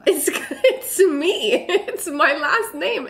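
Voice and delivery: high, laughing disbelief; amused to find her own name there. Real, not acted. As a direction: giggle through the reveal.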